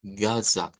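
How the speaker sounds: "gazat" with an open a at the start; "gazat", con a abierta al inicio; transliterated gazat. Shown as a demonstration. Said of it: "Esta sería ga". ("gazat" dicho como transliteración)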